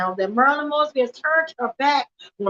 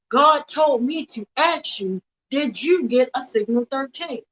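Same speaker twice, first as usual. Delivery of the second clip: slower, deliberate pressing question; insistent retold demand. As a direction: press the question home, word by word. Repeats the question, refusing brush-off.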